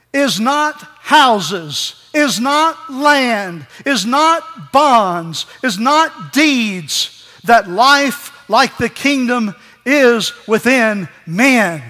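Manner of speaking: each is not dragged out and hammered; slow, weighty quoted list; slow emphatic litany. Acted. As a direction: pound every line slowly, one at a time.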